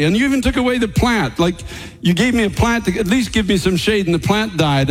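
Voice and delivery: bitter complaint pitched high. Retold or imitated. Jonah complains to God, pitched high and bitter. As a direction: whine it up like a wronged prophet. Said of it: "he was so mad at everything around him".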